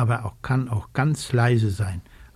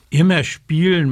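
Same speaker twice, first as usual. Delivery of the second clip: louder sulky grumble, lightly acted; grumbling; 3 semitones higher, 5 dB louder than usual. Socke grumbling at Frau Dachs's advice, mild sulky grumble. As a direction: grumble it back like a sulking kid. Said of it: "mault Socke".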